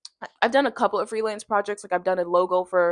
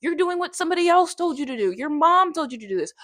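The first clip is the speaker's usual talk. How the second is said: scolding herself; 6 semitones higher than usual. Retold or imitated. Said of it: "But I'm like".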